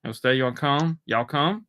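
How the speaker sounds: hammed-up hick coaxing a stranger to stay; mock Southern invite. Imitating pushy Southerner.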